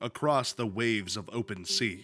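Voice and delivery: calm, even reading of an epic; story narration. Acted. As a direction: read the voyage steadily to listeners. Reads the Odyssey aloud.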